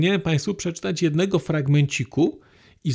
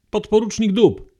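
a higher, louder call across the orchard; exclaimed name; 5 semitones higher, 5 dB louder than usual. Acted. Girl calls a tree name to Zdeniek, higher and louder. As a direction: call out the name as a child's game. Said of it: "wykrzyknęłam".

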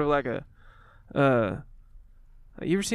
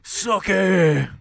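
louder, stretched Southern vowels; Southern accent character; 4 semitones higher, 5 dB louder than usual. Acted. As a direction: call out to her in a thick drawl. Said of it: "more like a Charleston Southern accent".

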